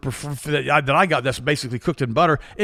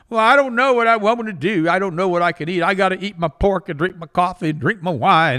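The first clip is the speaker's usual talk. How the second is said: whiny patient; 5 semitones higher, 4 dB louder than usual. Retold or imitated.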